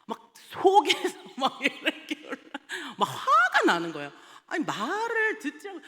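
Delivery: laughing through a tale of anger; telling the congregation about losing her temper, laughing. Real, not acted. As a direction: chuckle while admitting you got mad. Laughing while recounting anger.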